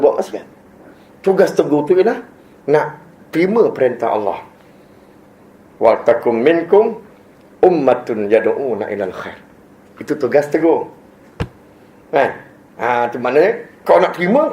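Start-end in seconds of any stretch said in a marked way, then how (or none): 5.8-9.4 slow, measured chanting of the verse; unhurried Arabic recitation; Quran recitation. Acted. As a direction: recite it deliberately, as in prayer.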